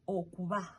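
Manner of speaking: okuba, no stress on the b; unemphasized single B. Shown as a demonstration. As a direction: let the B in okuba glide, almost a v. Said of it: "if you don't emphasize".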